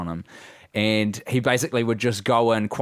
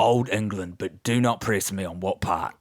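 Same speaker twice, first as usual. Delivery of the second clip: put-on old geezer; 2 semitones lower than usual. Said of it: "an old geezer".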